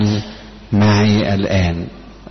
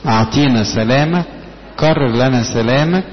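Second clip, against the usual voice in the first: praying plea; 4 semitones higher than usual. Retold or imitated. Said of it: "لما اقول له".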